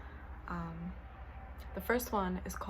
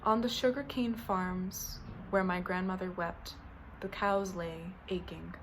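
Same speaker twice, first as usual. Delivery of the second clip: deliberate recital, pausing between short lines; poem reading. Acted. Poet reading haikus about a grandmother, measured recital. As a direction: let each haiku line stand alone. Reads haiku series aloud.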